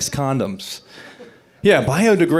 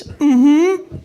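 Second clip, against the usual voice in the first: mock sarcastic; 6 semitones higher, 3 dB louder, much slower than usual. Mocking reply after four dates.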